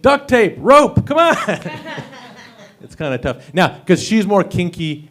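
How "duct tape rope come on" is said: high, loud hammed-up girlfriend; mock eager girlfriend. Girlfriend pitching her romantic evening, high and eager. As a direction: squeal it, keen and high. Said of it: "She'll be like".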